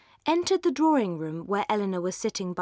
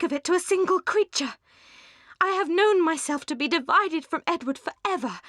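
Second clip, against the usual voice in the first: impassioned outburst; 6 semitones higher, 3 dB louder than usual. Acted. Eleanor finally pours out her pain.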